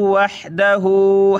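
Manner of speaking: "वहदहु" with an audible pharyngeal H before the d; throaty haa. Shown as a demonstration. Teacher modelling haa, "वहदहु" slow with a throaty H. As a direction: chant "वहदहु" slowly, releasing the throat H. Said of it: "हा को निकालें".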